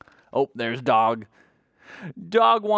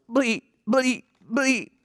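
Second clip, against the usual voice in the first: goat bleat; 9 semitones higher, much slower than usual. Acted. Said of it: "That's the sound the goat makes".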